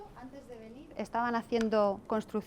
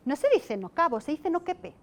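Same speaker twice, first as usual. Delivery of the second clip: mock-stern child correcting a classmate; very serious little girl; 5 semitones higher, 4 dB louder than usual. Girl seriously corrects the boy, mock-stern child voice. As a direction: correct him with dead-serious confidence, voice going up. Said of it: "se queda la niña así muy seria".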